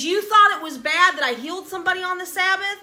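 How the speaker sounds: excited bold declaration; bold boast. Acted. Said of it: "He goes".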